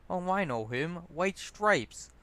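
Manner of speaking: put-on eager drunk showing off his music knowledge; drunkard. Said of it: "the drunkard says".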